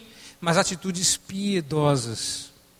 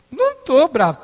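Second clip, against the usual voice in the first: louder, tense denial; denying anger; 8 semitones higher, 5 dB louder than usual. Retold or imitated. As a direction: insist you are not angry, voice rising. Acted quarrel with wife.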